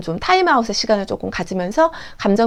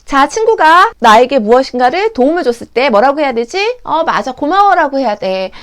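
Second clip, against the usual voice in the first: put-on teacher drilling children; 2 semitones higher, 4 dB louder than usual. Teacher asking children what to say, instructive sing-song. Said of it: "백날".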